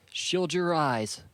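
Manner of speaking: slow, high, loud call; shouted warning. A narrator's reading. Saku warns as a samurai reaches for her bag, shouting slowly. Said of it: "she shouted".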